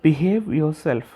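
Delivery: Behave yourself. said very slowly, stress on behave; slow, stern Behave yourself. Shown as a demonstration.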